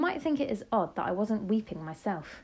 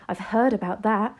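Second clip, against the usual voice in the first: excited; 2 semitones higher, 7 dB louder than usual. A narrator's reading. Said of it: "cried out excitedly".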